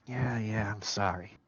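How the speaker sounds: talking through gritted teeth; forced apology through clenched teeth. Acted. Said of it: "through kinda gritted teeth".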